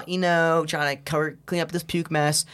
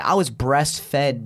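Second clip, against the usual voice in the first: stretches "I was breastfed" out slowly; slow rephrase; 3 semitones lower, much slower than usual. Shown as a demonstration. Rephrasing the hotel line for his friend, said slowly. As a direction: drag each word of "I was breastfed". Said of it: "Let me say it like this".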